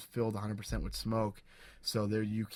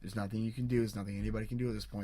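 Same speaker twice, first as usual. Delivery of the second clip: calm reassurance. Retold or imitated. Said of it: "talking to her very calmly".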